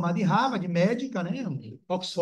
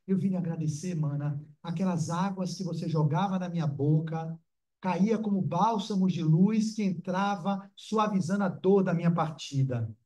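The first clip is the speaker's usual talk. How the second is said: imitating the uncle. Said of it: "tô fazendo a de meu tio".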